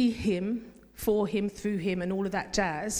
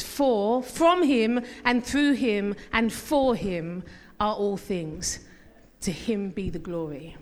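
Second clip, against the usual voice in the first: slow reading; 3 semitones lower, slower than usual. Shown as a demonstration. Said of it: "I'm gonna say it again".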